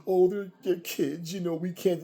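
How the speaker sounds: sneering take on a weak excuse; mocking excuse. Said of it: "Stop with the".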